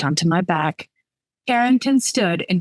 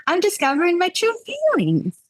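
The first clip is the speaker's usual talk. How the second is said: put-on drunk dramatic; 12 semitones higher than usual. A narrator's reading.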